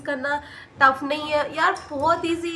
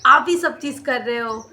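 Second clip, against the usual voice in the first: louder, reproachful accusing voice; scolding relatives; 6 dB louder than usual. Retold or imitated. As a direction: imitate relatives blaming mom. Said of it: "मेरी mummy को बोल रहे थे".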